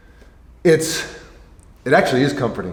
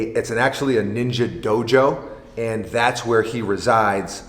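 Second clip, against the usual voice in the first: slow mock nature-show narration; deadpan wildlife presenter read; nature documentary narrator.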